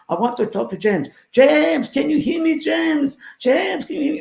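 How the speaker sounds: high, loud calling of a spirit, rising in pitch; spirit voice building. Retold or imitated. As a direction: call his name again and again, reaching out from beyond. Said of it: "It was a Frenchman".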